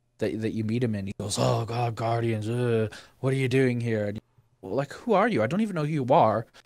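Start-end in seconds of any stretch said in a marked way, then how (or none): 1.4-4.1 irritated, angry, grumpy sarcastic grumble. Retelling a game character's first line to the player: imitating an angry, grumpy character. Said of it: "he was just angry and grumpy at you".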